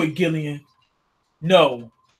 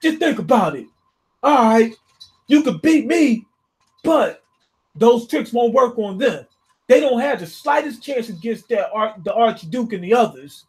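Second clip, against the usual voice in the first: raised, pleading villain voice; his voice; 5 semitones higher than usual. Retold or imitated. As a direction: bargain for your life, pitched up. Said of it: "I'm gonna say this in his voice".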